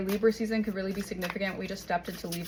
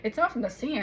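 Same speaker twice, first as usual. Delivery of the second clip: out of breath; 3 semitones higher than usual. Real, not acted. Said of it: "I'm out of breath".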